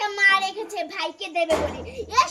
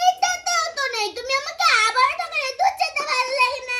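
louder, higher whining complaint of being tricked; mock whining cry; 4 semitones higher, 5 dB louder than usual. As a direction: whine like a cheated child. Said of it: "আরে কান্না করিস না". (ঠকে গিয়ে ছোট মেয়ের নকল কান্না)

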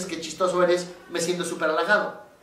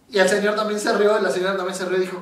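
ordinary talk

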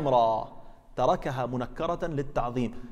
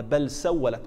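بل said louder and with weight; stress on بل; 4 dB louder, slower than usual. Shown as a demonstration. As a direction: hit the word بل hard. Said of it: "بل هذه نفت ما قبلها". (شدّد على كلمة بل)

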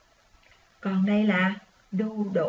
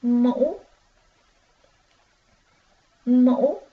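loud model reading; 5 dB louder than usual. Shown as a demonstration. Teacher reading mũ aloud for children to echo. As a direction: call out Mũ clearly and loudly. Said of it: "Các con đọc trơn cho cô nè".

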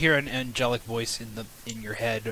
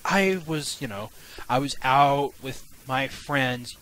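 nervous excuse; 6 dB louder than usual. Acted. Tim nervously excuses himself to wife.

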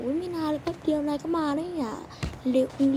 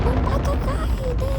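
very high and much louder shout to get out; furious shout; 12 semitones higher, 9 dB louder, slower than usual. Acted. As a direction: blast him out at full volume. Staff throws loud viewer out.

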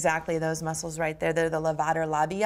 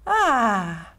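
open-mouthed ah; 3 semitones higher, 4 dB louder than usual. Shown as a demonstration. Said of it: "And open the mouth".

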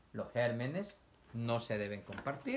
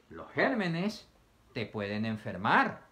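bear's advice; 4 dB louder, slower than usual. Retold or imitated. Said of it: "el osito te da un consejo".

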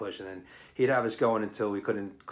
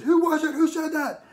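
much higher, louder stern demand; demanding shout; 7 dB louder, much faster than usual. Retold or imitated. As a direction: bark at the ranks to find the joker. Instructor demands who spoke.

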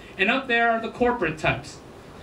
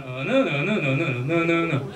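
"no, no, no" swinging up and down in pitch; sing-song zigzag on every "no"; zigzag pattern; 4 semitones lower than usual. Shown as a demonstration. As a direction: make each "no" seesaw up, then down. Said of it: "a little bit of a zigzag pattern".

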